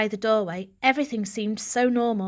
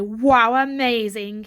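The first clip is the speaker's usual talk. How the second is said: purred; 7 dB louder, slower than usual. Acted. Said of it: "he purred".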